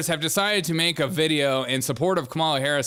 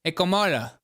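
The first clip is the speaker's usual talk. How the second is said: imitating Kamala Harris. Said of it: "waiting to hear her Scandinavian accent".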